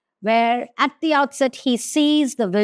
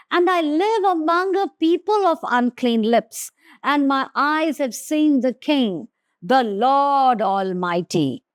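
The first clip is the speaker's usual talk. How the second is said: lamenting confession; 3 semitones higher than usual. Acted. Preacher rereads Isaiah's confession of unclean lips, mild lament. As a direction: read the confession with a touch of ache. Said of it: "I cried".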